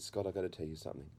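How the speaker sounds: soft, quick confiding line; calmed-down mother. Retold or imitated. Mother confides in son after sobbing, acted calmed down. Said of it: "she finally calmed down".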